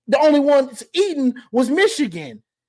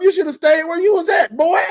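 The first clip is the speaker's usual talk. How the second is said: laughing; 5 semitones higher than usual. Real, not acted. Laughing at Caleb.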